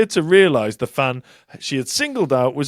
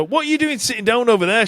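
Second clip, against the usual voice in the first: quicker, higher hammed-up pop diva; mock diva shout; 8 semitones higher, faster than usual. Host redoing a pop singer yelling at a fan, mock shout. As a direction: scold the seated fan like a diva. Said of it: "she shouted".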